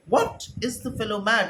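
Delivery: sharp exasperated question; irritated. Acted. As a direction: brush him off with annoyance. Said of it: "Caesar is feeling very irritated".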